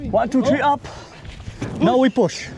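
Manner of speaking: lifting together. Real, not acted. Counting for a group lift.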